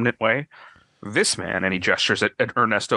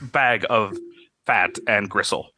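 halting creature speech with swooping pitch; a wavering creature, word by word; changing shapeshifter voice; slower than usual. Acted. Shapeshifter insulting a listener, halting changeable voice. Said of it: "his voice is, like, changing".

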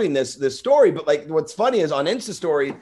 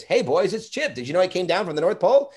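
Chip the elf; 5 semitones higher than usual. Acted. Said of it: "the first thing I would say is".

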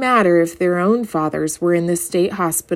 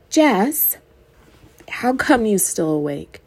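little shrill voice; 3 semitones higher, slower than usual. Acted. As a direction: squeak it like a little girl. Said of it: "Maybelle's little shrill".

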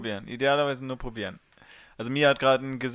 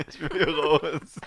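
dog voice; much slower than usual. Retold or imitated. Voicing the dog's wish.

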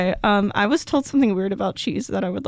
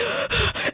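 voiceless gasp, imitating relief; imitated relieved gasp; 5 dB quieter than usual. Imitating a man woken from night terrors, relieved gasp. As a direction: gasp like someone shaken awake. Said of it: "never seen a man look so relieved".

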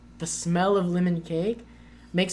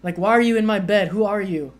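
imitating a yelling drunk; 3 semitones higher, 6 dB louder than usual. Retelling a drunk French guy yelling at her at night, mock yell. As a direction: play the drunk Frenchman shouting at the stranger in his bed. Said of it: "yelling at me".

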